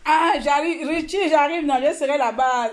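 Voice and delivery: calling out. Real, not acted. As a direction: call out to Richie that you're coming.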